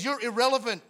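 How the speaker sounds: dismissive dishonor. Acted. Preacher voicing dishonor looking at age, dismissive. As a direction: throw it out as a scornful dismissal. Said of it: "It looks at age and says".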